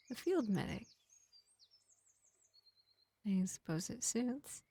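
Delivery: lightly voiced vampire healer, projected above the chatty voice; gentle vampire medic. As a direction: play a measured vampire reassuring a wounded elf, with long pauses. Plays vampire medic to an elf.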